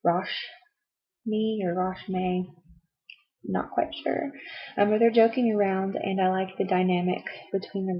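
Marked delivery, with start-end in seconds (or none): 0.0-2.5 says Roshmi and Roshme slowly, trying each; trying pronunciations. Shown as a demonstration. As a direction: sound out Roshmi then Roshme carefully. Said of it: "I hope I'm saying his name right".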